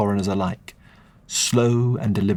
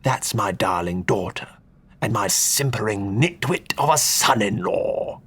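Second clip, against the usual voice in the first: put-on sneering old duke.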